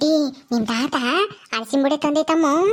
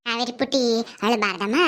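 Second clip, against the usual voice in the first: put-on lower, soothing tone to a child; gently consoling; 3 semitones lower than usual. Elder comforts crying Kaveri, gently soothing.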